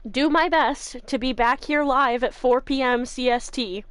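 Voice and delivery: talking while chewing ice. Real, not acted. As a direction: crunch ice between words. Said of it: "Sorry, I'm chewing ice".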